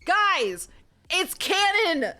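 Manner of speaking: loud, high, rushed exclaim; excited outburst. Real, not acted. Reader realizing the hero is Scottish, loud excited cry. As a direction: gush at the guys about the twist. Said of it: "excited outburst".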